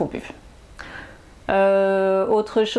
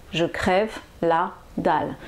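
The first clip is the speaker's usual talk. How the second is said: expressive; 2 semitones lower than usual. Shown as a demonstration. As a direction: say "Je crève la dalle" like you're starving. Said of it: "si je le dis normalement". (avec emphase, en traînant sur « crève »)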